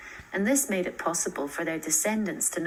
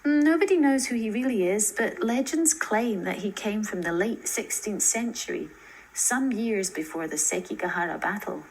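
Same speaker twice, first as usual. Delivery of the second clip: lightly voiced girl; 3 semitones higher than usual. Narrator voices Cousin Mai.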